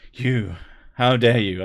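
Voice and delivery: slow, drawn-out fake indignation; mock outrage. Host scolding chat in hammed-up outrage. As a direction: play at being shocked.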